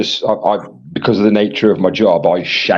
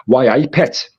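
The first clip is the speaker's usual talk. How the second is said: lightly put-on Geordie lilt; Geordie accent; 3 semitones higher than usual. Streamer reading out a Scotsman's chat message, in a light Geordie accent. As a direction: slip into a playful touch of Geordie. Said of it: "I speak Geordie a lot".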